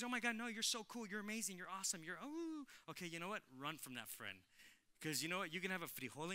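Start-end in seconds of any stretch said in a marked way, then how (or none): 0.0-2.6 higher, gushing, fading off; gushing flatterer. Retold or imitated. Fake friend flattering you, lightly voiced gushing. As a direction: gush the flattery sweetly, trailing away. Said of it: "The one that says".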